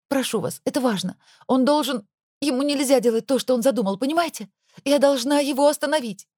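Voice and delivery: frantic pleading. Acted. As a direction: rattle on, begging. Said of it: "я продолжила тараторить".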